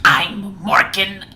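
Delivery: slow, drawn-out spooky name; a hint of creepy ghost; scary voice. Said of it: "I'll try another scary voice".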